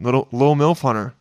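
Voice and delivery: lightly put-on British accent; mock British accent.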